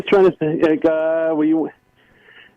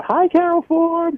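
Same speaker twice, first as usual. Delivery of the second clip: high, slow put-on hello; fake greeting voice; 13 semitones higher, slower than usual. Caller showing how he used to greet Carol, fake voice. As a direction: re-enact the old squeaky greeting. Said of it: "that's how I always used to greet Carol".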